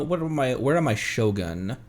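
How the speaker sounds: ordinary talk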